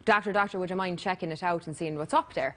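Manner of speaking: lightly put-on Irish accent. Guest telling a bad Irish joke, patient in Irish accent. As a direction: play the joke's patient with a hint of Irish. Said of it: "It's like we were in Ireland there when you did that".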